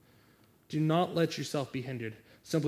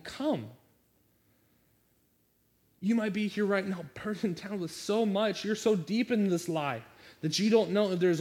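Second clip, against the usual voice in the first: impassioned preaching; 3 semitones higher than usual. Acted. Pastor urging the congregation to come to the altar, fervent and raised. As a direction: drive them to the altar with fervour.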